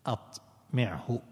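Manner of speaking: "أطمعه" slowly, syllable by syllable, at-mi'-hu; slow, careful at-mi'-hu for "أطمعه"; corrected pronunciation. Shown as a demonstration. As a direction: spell out "أطمعه" by ear, slowly. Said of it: "إيه، غلط".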